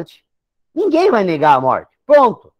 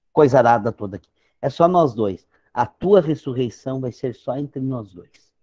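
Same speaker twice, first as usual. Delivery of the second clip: tender father; 4 semitones lower than usual. Retold or imitated. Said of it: "Eu fico imaginando que Deus diz assim". (pai carinhoso falando baixinho com o filho)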